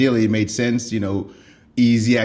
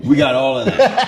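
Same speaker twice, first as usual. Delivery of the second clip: much higher, laughing through the words; real laughter, slightly louder; 14 semitones higher, 5 dB louder than usual. Real, not acted. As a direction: giggle it out while agreeing. Laughing about the goats.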